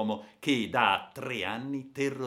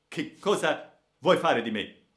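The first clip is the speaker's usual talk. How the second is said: louder, higher-pitched captive's outcry; desperate cry; 6 semitones higher, 9 dB louder than usual. A narrator's reading. Young captive asking the bandit his fate, crying out. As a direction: cry out to your captor. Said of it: "gridò il povero giovane".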